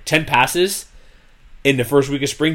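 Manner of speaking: dry mocking emphasis; sarcastic. Real, not acted. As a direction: say it with mild sarcasm. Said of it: "okay, kinda sarcastically here".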